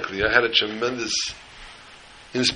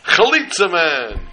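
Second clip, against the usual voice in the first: high, slow, stretched-out hero's cry; retold superhero scream; 7 semitones higher, 4 dB louder, slower than usual. Kid in cape bursts out to save him, mock scream. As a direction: announce yourself like a caped superhero, drawn out. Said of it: "And he screams".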